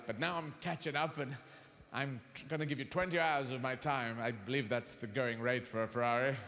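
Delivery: bargaining with God in a low, casual voice; mock prayer. Continues praying to God.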